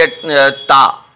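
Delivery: ता stretched very slowly and clearly; drawn-out letter name. Shown as a demonstration. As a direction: draw out ता syllable by syllable. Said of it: "इसे बोलेंगे".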